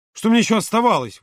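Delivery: high, heated protest; exclaiming. A narrator's reading. Володя defending himself to Юра, exclaiming. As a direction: burst out in self-defence. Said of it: "воскликнул Володя".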